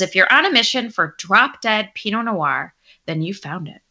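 playful label-reading voice; wine voice. Pretend. Reading the Pinot label to her co-host, wine voice. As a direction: read it like a wine advert, lightly put on. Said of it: "put on your wine voice".

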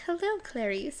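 hushed, creepy villain line. Retold or imitated. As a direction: breathe it out creepily. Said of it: "in a creepy voice".

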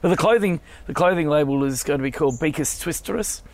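hoarse with a cold; speaking through a croaky throat. Real, not acted. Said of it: "a croaky voice like mine right now".

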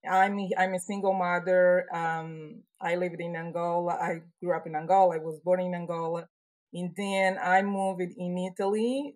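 Portuguese-tinged Angolan accent. Real, not acted. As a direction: speak English with an Angolan accent. Guest from Angola speaking English.

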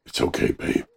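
soft tender whisper. Acted. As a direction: whisper sweetly to the boat. Soothing the boat.

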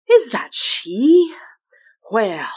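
breathy windy whisper; hushed, slow wind spirit; whispering South Wind. Acted. South Wind voiced in tale.

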